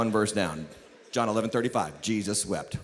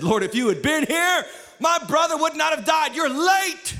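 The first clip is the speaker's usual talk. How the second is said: higher-pitched acted reproach; reproachful; 5 semitones higher than usual. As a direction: protest as a grieving sister let down. Acting Martha's reproach to Jesus.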